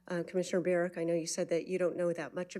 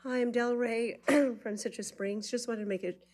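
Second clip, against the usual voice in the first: out of breath; 4 semitones higher than usual. Real, not acted. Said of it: "Sorry, I'm out of breath".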